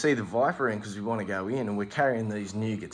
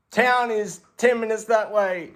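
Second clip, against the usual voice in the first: much higher, louder, eager helpful; mock dopey guy; 10 semitones higher, 5 dB louder than usual. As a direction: point them off brightly. Dumb guy gives directions.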